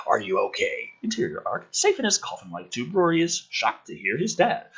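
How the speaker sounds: lively, dramatic script read; energetic story narration; screenplay narration. Acted. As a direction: read the action lines like a trailer. Reads screenplay scene description aloud.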